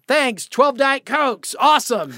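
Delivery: high, slow mock-cheery thanks; stretched, mock-chipper awesome; sarcastic thanks. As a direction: play up the joke of sober drinks. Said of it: "so it was like".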